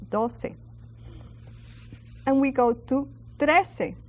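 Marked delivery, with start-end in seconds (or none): 0.1-0.5 "doce" with the C as an S; soft C. Shown as a demonstration. Teacher explaining C next to E, "doce" with an S sound. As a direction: say "doce" as DOH-seh. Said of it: "it's a soft C, like an S".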